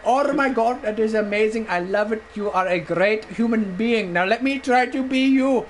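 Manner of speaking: lightly voiced Indian-accented clerk; imitated Indian clerk. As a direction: praise warmly in a put-on Indian accent. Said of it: "I'm doing it in his voice".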